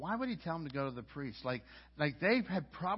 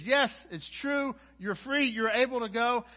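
priest declaring them clean; 6 semitones higher, 6 dB louder than usual. Acted. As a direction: announce their freedom gladly. Priest voiced pronouncing them clean.

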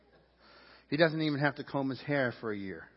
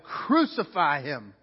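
slow, weighty mock shout; measured retold shout, falling at the end; crowd's shout, restrained; 4 dB louder, much slower than usual. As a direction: draw the cry out slowly, without full force. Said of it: "they shouted".

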